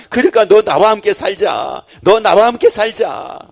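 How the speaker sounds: full-force preaching. Acted. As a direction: preach it, pressing the love home. (열정적으로 외치는 설교)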